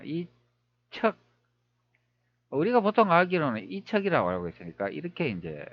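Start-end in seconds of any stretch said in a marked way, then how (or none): 0.0-1.2 이척 very slowly with a long pause after 이; puzzled sounding-out. Shown as a demonstration. Presenter finding the pronunciation odd, slow puzzled sounding-out. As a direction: pull 이 and 척 far apart, testing the sound. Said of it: "발음이 좀 이상하네요".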